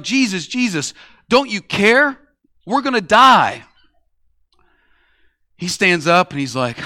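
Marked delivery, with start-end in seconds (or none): 0.0-3.6 higher, louder, panicked disciples crying out. Retold or imitated. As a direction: yell it like the boat is sinking. Disciples wake Jesus in storm.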